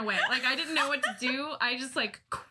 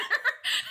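breathy silent laugh; 13 semitones higher, 3 dB louder than usual. Real, not acted. Laughing at woman's reaction.

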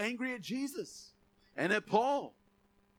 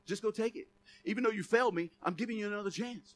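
gentle pleading God; 5 dB quieter, faster than usual. Retold or imitated. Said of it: "And he's like".

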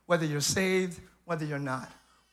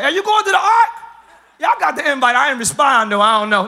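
chatty animal gossip; 4 semitones higher, 7 dB louder than usual. Retold or imitated.

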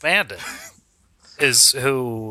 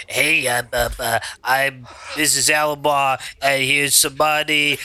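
lightly put-on wackadoo woman; halting, mildly goofy caller; 2 semitones lower than usual. Adam relaying the woman who called him, lightly wackadoo.

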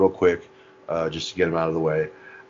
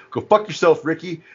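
high, laughing mock Bubbles; laughing Bubbles impression; 9 semitones higher, 4 dB louder than usual. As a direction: laugh through a put-on Bubbles yell. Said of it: "you hear Bubbles ... go".

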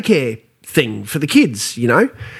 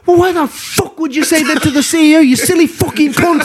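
high, laughing mock fury; Shane storming in; 13 semitones higher than usual. Mate bursting in, yelling at him over the CEO joke, high laughing mock rage. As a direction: play the furious mate yelling through laughter. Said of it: "He goes".

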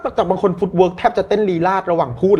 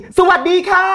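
much higher, louder, gushing hello; overdone greeting; 12 semitones higher, 4 dB louder than usual. Shown as a demonstration. Coach exaggerates the greeting for practice alone. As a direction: overshoot it like a game-show host. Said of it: "ตอนฝึกก็ต้องอยู่ที่".

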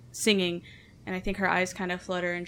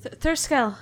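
dazed recognition; 7 semitones higher, 7 dB louder than usual. Acted. Dazed character recognising her rescuers.

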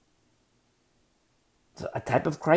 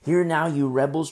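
louder stern reading of HEAR now; firm, louder scripture rebuke; 6 dB louder than usual. Shown as a demonstration. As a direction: bark the rebuke at the crowd. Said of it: "translates as".

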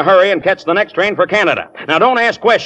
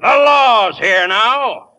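shouted orders; 8 semitones higher than usual. Acted. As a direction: shout everyone down in the scuffle. Scuffle over the money bag.

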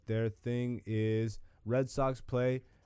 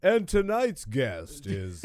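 slow, lightly hammed-up host intro; stretched-out mock show announcement; talk show host; 4 dB louder, much slower than usual. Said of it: "this just turns into".

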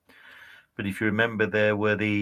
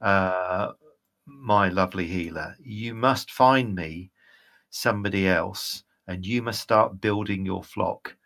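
slightly lowered, measured divine command; lightly voiced disappointed goddess; 3 semitones lower than usual. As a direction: instruct a lacking follower, unhurried and restrained.

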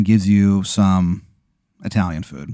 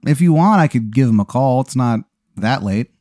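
high, drawn-out teasing offer; Sugar King; 5 semitones higher, slower than usual. Acted. Clown host offering to phone the tire shop owner, high then easing down. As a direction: start high and stretched, settle toward casual. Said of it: "And he goes".

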